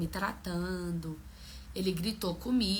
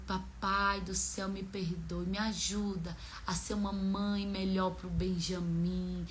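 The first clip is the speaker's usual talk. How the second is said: quietly re-voice a humble plea to God; retold prayer; 2 semitones lower, 6 dB quieter than usual. Mother praying to be a better mother, retold soft prayer. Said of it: "Aí nós fomos orar".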